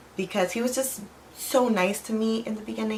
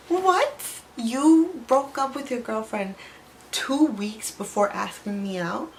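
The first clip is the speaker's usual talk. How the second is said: high, loud, slow outraged disbelief; shocked disbelief; 5 semitones higher, 3 dB louder, slower than usual. Retold or imitated. Learning he dumped his girlfriend, high loud disbelief. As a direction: shriek the question, stunned and appalled. Outraged reaction to boyfriend's confession.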